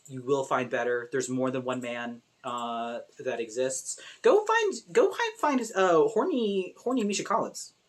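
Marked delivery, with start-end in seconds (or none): 4.2-7.7 excited urging. Real, not acted.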